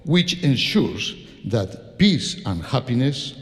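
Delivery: slow, measured reading with long pauses; solemn quotation. Acted. Conductor reads Tchaikovsky's words on fate to audience, solemn recitation. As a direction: read it out gravely, phrase by phrase.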